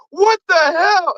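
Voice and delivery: high, stretched-out disbelief; mock shock. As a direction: react to a prank in a hammed-up high voice. Retold shock at a prank.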